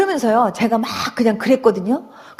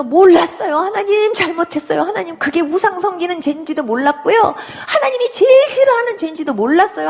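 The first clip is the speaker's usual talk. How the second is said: lightly higher, tearful confession; a hint of tearful repentance; repentant plea; 4 semitones higher than usual. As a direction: confess with a catch of tears. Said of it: "하나님 앞에 막 회개했어요".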